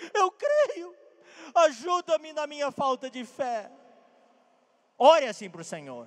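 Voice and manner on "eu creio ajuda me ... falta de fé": high, slow voice crying through tears. Retelling what the boy's father exclaimed to the Lord, acting out a tearful cry. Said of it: "(com lágrimas)".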